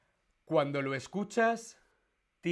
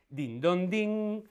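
chime sound; 5 semitones higher, 3 dB louder, slower than usual. Acted. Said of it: "el anuncio por megafonía dice".

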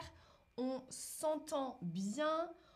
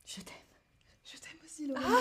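playful love declaration; 2 semitones higher, much faster than usual. Pretend.

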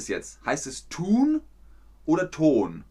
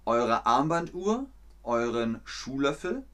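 slow, measured game master; lightly voiced game master inviting you to imagine; slower than usual. Game master telling the players, slow and measured. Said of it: "die Spielleiterin sagt".

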